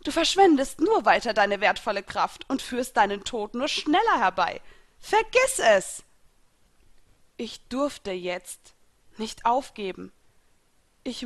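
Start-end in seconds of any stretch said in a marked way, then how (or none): 0.0-6.0 gloating enemy voice, high and loud; taunting villain. A narrator's reading. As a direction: sneer at a dying foe from above.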